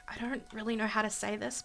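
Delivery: whispered confession. Pretend. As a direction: breathe it out like a secret. Voicing a shy love confession.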